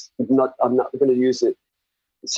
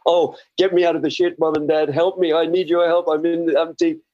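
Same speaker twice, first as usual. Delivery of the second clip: high-pitched, mock-desperate begging; desperate plea; 5 semitones higher than usual. Man mimicking a needy prayer to Mom and Dad, desperate plea. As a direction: plead for help in a pitched-up voice.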